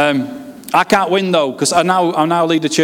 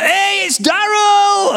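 retold shout; much slower than usual. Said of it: "And they went".

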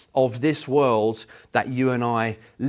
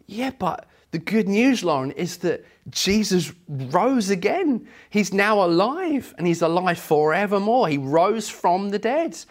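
higher, lightly acted grandmotherly enthusiasm; encouraging good news; 5 semitones higher than usual. Grandmother giving Lauren good news, mildly excited. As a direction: lift the pitch to cheer up a small child. Grandmother cheering up sad child.

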